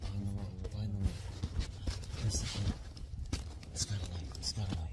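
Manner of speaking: loud, urgent and scared; loud warning. Real, not acted. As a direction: call out to scare it off. Scared camper shouts a warning.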